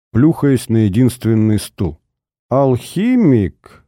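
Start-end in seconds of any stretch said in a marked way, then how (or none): 2.5-3.8 slow, stretched-out question; a drawled, disbelieving Алхимик; drawn out. Acted. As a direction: drag the word out, squinting. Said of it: "протянул Ипполит Юрьевич".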